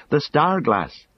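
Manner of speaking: high, urgent exclamation; urgent cry. A narrator's reading. Sam urging Frodo to use the gift, urgent cry. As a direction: cry it out, pitched right up. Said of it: "life and urgency came back into his voice".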